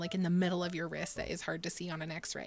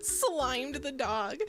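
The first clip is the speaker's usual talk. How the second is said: laughing disbelief; 5 semitones higher, much slower than usual. Real, not acted. Laughing after the dog incident.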